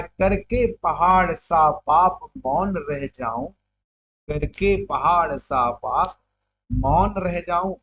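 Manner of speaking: slow, measured poetic delivery; verse recitation. Acted. Teacher recites Kaikeyi's confession to the class, slow verse recitation. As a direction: recite in long, even phrases.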